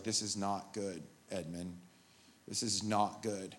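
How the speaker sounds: softly, gravely, a touch of a lion's weight; quiet and heavy, like a sorry mentor; a hint of Aslan, low and soft; hushed warning. Aslan warns Edmund, retold.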